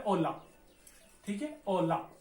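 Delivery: ola with a silent h, stressed first syllable; Spanish hola. Shown as a demonstration. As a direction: say ओला with no h sound, o-la. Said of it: "ओला कहने का मतलब है".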